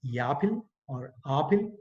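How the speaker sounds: APPLE turned into "yapil" or "aapil"; mother-tongue spelling pronunciation. Shown as a demonstration. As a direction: say APPLE as transliterated, "yaa-pil, aa-pil". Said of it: "end up getting".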